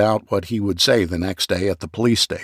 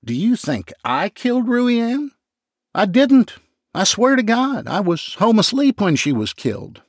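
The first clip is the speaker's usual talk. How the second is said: very high, frantic protest; high-pitched panicked pleading; desperate denial; 12 semitones higher than usual. Acted. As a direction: swear innocence in a panic, high and loud. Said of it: "McCracken sobbed louder".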